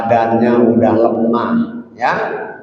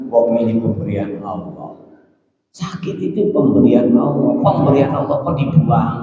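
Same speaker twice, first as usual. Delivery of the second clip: lightly voiced old man insisting; a hint of a pious elder refusing; stubborn old teacher; 3 semitones lower than usual. Sick teacher refuses medicine as a gift from God. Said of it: "kata dia".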